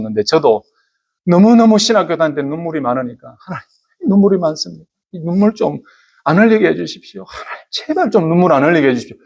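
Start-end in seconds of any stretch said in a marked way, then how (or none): 3.4-9.2 retold pleading prayer. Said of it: "이렇게 기도했는데요".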